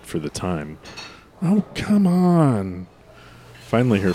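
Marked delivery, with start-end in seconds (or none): 1.4-2.9 impatient. Acted. Impatient in slow line.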